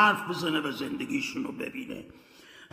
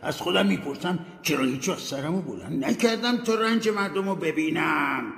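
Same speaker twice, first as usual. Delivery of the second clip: sad ghost; 9 semitones higher than usual. Acted. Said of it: "با ناراحتی گفت".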